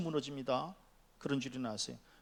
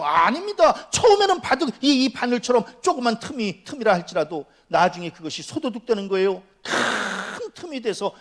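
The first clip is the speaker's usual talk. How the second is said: high, loud exhortation with stretched key words; full-force preaching; 9 semitones higher, 9 dB louder than usual. Acted. Preacher warning the congregation about stealing, forceful. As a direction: drive each question home to the congregation.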